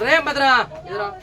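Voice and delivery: father calling out. Acted. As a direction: summon the boy, ominous. Angry father calls his son.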